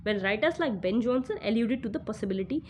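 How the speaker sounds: reading the English passage aloud, slowly and evenly; deliberate exam-passage read, word by word. Acted. Teacher reads the passage aloud to students, slow and measured.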